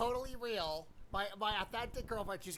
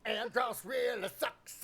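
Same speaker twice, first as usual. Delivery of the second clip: mock shout; 2 semitones higher, 3 dB louder, slower than usual. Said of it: "do the fucking Independence Day thing".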